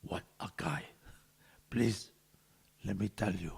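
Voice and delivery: a mild gruff monster take on the praise; Cookie Monster. Pretend. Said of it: "Do it like Cookie Monster".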